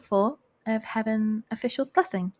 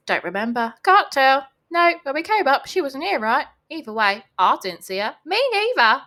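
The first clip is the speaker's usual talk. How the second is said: loud, higher crowd voices in a put-on English accent; 4 semitones higher, 7 dB louder than usual. Crowd denies seeing her come up, put-on English accent. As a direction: answer as a chorus of English villagers, raised voices. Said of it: "I don't know why they have that accent in my head".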